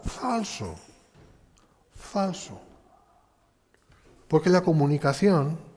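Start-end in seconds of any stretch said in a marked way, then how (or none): 0.0-2.6 firm rebuttal. Real, not acted. Refutación tajante.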